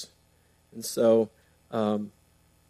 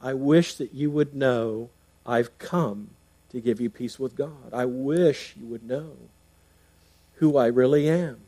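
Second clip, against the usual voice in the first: lamenting, weeping. Retold or imitated. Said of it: "he's saying".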